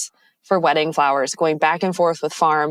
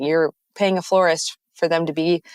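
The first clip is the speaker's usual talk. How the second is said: speaking between hiccups; hiccuping. Real, not acted. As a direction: talk through the hiccups. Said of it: "I'm hiccuping".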